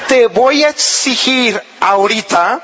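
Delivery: firm demand without shouting; authoritative. Shown as a demonstration. Wife making a demand of husband, authoritative. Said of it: "con autoridad".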